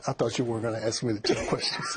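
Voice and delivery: quick reply breaking into laughter; laughing protest. Real, not acted. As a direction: tease the interviewer, laughing as you go. Teasing reply, both break up laughing.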